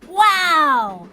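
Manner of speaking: high, loud, amazed wow; awed wow. A narrator's reading. Pete seeing the train engine, awestruck. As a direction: gasp it out in wonder.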